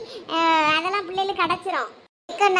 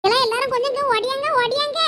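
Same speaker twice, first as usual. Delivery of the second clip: calling out; 3 semitones higher than usual. Acted. Calling everyone to come quickly.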